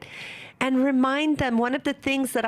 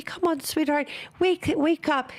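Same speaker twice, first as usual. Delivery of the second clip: gentle waking words; 4 semitones higher than usual. Shown as a demonstration. Mother gently waking her sleeping child for Fajr, tender coaxing. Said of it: "Use gentle words".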